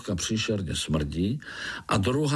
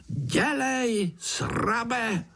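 very high hissing insect taunt; hissing fly; 14 semitones higher, much slower than usual. Acted. Fly groom hisses a taunt at the spider, very high. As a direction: hiss the taunt like a tiny bug. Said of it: "sýpal Mušák".

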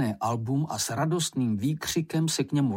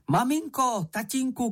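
much higher, eager little calls; a child running up, calling out happily; excited calling; 11 semitones higher than usual. A narrator's reading. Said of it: "křičel Mumínek". (radostně volá, mnohem výš)

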